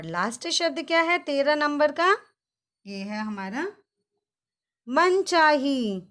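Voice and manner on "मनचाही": slow drill. Shown as a demonstration. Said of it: "आप मेरे साथ उच्चारण कीजिए।".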